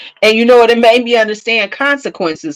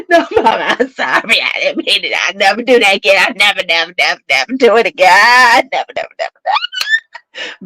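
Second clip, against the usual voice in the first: put-on begging child. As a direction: beg faster and faster.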